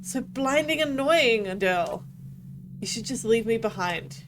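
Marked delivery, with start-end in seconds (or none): 0.0-2.0 bitter outburst. Acted. Quarrel, lashing out.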